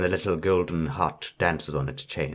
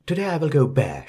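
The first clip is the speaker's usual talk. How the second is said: exclaiming; 7 semitones higher, faster than usual. A narrator's reading. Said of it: "she exclaims".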